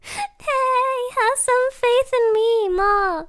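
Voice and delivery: high, whiny mock-hurt plea; light-hearted indignant whine; playful protest. Real, not acted. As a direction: plead it high, half laughing. Protests teasing doubt after laughing.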